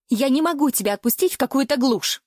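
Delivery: usual speaking voice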